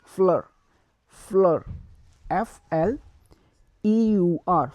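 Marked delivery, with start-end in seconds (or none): 0.0-1.6 fleur said flər, stressed end; French fleur. Shown as a demonstration. Teacher modelling fleur for students. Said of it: "we will say fleur".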